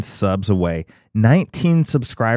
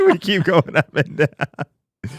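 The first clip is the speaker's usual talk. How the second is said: slow, laughing through the words; 7 semitones higher than usual. Real, not acted. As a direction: laugh while you say it. Laughing at sub count.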